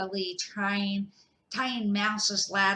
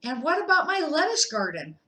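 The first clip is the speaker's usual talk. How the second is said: high, loud worried hedgehog; anxious gasp; 7 semitones higher, 6 dB louder, faster than usual. Acted. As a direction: fret about the garden. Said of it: "Hedgehog gasped".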